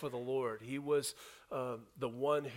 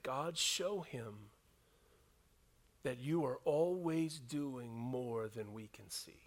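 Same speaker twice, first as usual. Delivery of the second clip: calm prayer; 4 dB quieter, slower than usual. Acted. Elisha praying calmly.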